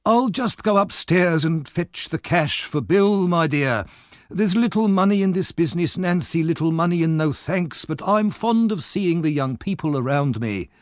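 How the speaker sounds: Fagin playing the kindly old man; fond old Fagin.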